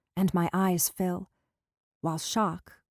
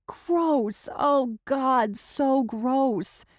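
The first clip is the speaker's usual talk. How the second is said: disgusted; 7 semitones higher, 4 dB louder, much slower than usual. Acted. Disgusted while laughing.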